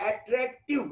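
अट्रैक्टिव split syllable by syllable; broken into syllables. Shown as a demonstration. Teacher showing how a long word breaks, अट्रैक्टिव in separated syllables. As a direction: say अट्रैक्टिव in separate chunks, at-trak-tiv. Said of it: "देखो ये टूटा".

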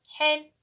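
حن said as "ḥin", pitched high; teacher sounding tanween; tanween kasra. Shown as a demonstration. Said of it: "أقول له".

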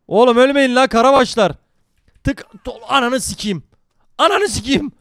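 frustrated loud call to the team; yelling at teammates. Real, not acted. Streamer shouting at dying teammates mid-fight, loud yell. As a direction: bark it at your dying teammates.

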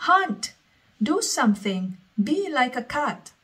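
high burst on Hunt, then dropping back; a furious child's outburst, front-loaded; screamed. Acted. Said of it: "And she screamed".

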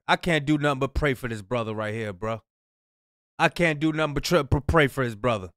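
sighing like there's no hope left; dismayed. Real, not acted.

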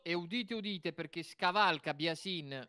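town crier. Pretend. Proclaims the finalists: "udite, udite.

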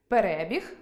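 «Перебіг» stressed on «ре», as a noun; stress on second «е». Shown as a demonstration. Teacher showing meaning through stress, «Перебіг» stressed on «ре». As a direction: put the weight on «ре» in «Перебіг». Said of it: "лише за наголосом ми можемо зрозуміти значення".

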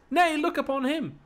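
high, shouted insistence; loud insistence. Acted. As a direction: make them look at him. Slave insists Achilles look.

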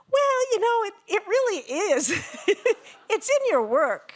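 mock insistent organizers. Quoting organizers insisting again.

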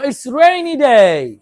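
slowly, each word stretched for the class; slow model phrase. Shown as a demonstration. Teacher modelling the sentence for pupils, slow and drawn out. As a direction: spell it out slowly for children to copy. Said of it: "বলো".

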